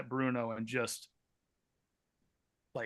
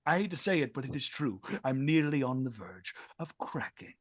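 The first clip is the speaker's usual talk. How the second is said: rising despair. Acted. Lord confesses to the artisan he is cracking, raised voice. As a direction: let the strain burst out.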